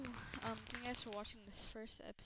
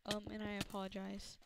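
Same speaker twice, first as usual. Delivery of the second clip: chewing while talking. Real, not acted. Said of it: "I'm trying to eat an icebreaker too".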